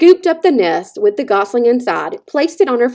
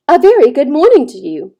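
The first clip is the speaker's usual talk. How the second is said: higher, louder cheerful call across water; hearty call over the water; friendly booming greeting; 6 semitones higher, 4 dB louder than usual. A narrator's reading. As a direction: boom a friendly hello over the pond. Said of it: "the robot's friendly voice boomed".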